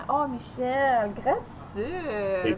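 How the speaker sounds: slow, drawn-out mystic voice; mystic gratitude. Pretend. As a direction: intone it like a guru.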